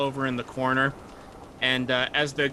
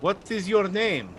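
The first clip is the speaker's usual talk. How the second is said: slow, higher, intrigued question; fascinated sailor; 4 semitones higher, slower than usual. Acted. Sailor intrigued by the druid, slow fascinated question. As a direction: savor the question in character.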